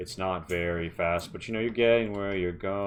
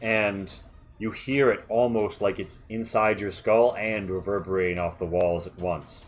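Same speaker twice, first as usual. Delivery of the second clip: game master's scene setting; 4 dB louder than usual. Acted. Game master describes approaching sounds to a player, suspenseful narration. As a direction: let each sound creep in between pauses.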